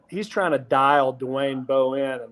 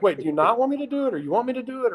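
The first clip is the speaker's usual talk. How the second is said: mock confused; 8 semitones higher, faster than usual. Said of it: "so I'm like".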